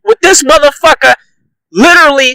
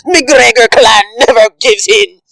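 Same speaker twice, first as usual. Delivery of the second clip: mock Conor quote. Quoting Conor mockingly.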